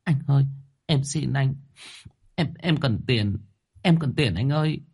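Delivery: a light touch of whimpering; whimpering plea. A narrator's reading. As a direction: plead with a quivering, tearful voice. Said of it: "đoạn mếu máo".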